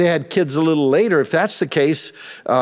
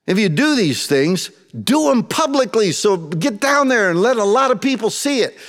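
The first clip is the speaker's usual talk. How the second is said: mocking brothers. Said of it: "They're mocking him".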